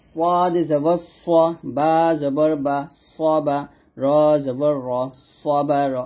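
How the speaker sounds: slow spelling, স long, hissed and heavy; whistling sod. Shown as a demonstration. Teacher spells a word for learners, whistling sod. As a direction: whistle into a thick স, spelling slowly. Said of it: "এরকমভাবে একটা শব্দ বের করে".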